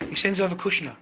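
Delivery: indignant repeat to the viewers; emphatic repeat. Real, not acted. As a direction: drive the point home the second time.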